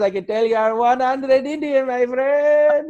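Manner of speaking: high, loud Indian accent imitating the driver; an excited Indian driver claiming him. Uber driver to comedian, in a put-on Indian accent. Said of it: "He didn't even say percent".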